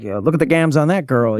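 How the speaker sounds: mock gangster slang, lightly voiced; tossing off "gams" like a cartoon tough guy; over-the-top 1920s slang. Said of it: "I didn't wanna be like".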